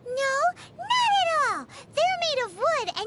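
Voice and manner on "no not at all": huffy, pitched-up protest; indignant denial. Acted. Paimon protests being called a mascot, high and indignant.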